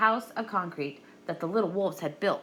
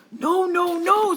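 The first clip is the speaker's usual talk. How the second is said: much higher, louder refusal; little wolves; 11 semitones higher, 7 dB louder, slower than usual. A narrator's reading. Wolves refusing the pig, high and loud. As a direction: squeal no at the pig.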